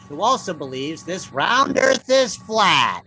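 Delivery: slow, sing-song rhyming verse; mock poem, measured beats and stretched rhymes; Doctor Seuss recital. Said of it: "At the Doctor Seuss Poetry School?".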